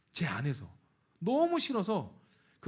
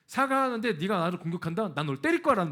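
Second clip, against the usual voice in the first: louder, threatening defiance; combative; 6 dB louder than usual. Retold or imitated. Preacher voices his own defiant mindset, loud and threatening. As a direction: dare her to attack. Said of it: "마음으로 갔어요".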